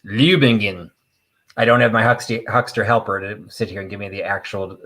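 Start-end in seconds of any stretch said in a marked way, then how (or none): 0.0-0.9 "Lübingen" sounded out as a guess; guessed German pronunciation. Real, not acted. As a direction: improvise a German-style reading of "Lübingen". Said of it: "pronunciations of any of these places".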